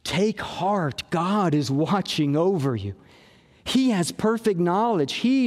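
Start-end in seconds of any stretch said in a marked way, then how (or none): 0.0-2.9 reassuring. Shown as a demonstration. Pastor voicing God's care for the anxious, low and reassuring. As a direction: tell them gently they are looked after. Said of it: "The point is".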